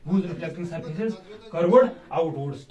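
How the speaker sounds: very slow, word-by-word dictation. Shown as a demonstration. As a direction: drag each word so students can write. Teacher dictating definition to class.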